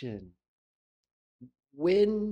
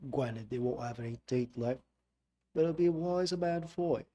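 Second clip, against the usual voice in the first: put-on copied London accent. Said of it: "This is the word granted".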